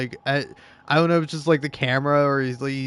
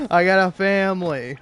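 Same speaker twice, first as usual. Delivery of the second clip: hammed-up complaint; 4 semitones higher, 5 dB louder than usual. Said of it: "hamming it up".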